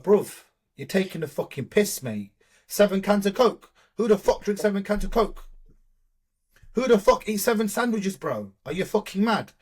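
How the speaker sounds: disbelieving, half-mock outrage at the client; incredulous rant. Coach retelling how he blasted a client over his binge, exasperated mock rant.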